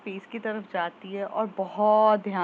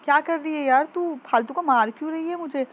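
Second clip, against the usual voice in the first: loud, higher yelp of pain and complaint; yelling ouch; 7 semitones higher, 5 dB louder than usual. Retold or imitated. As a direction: cry out after being hit, then protest loudly. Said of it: "तो चिल्लाता है". (ज़ोर से चिल्लाते हुए शिकायत)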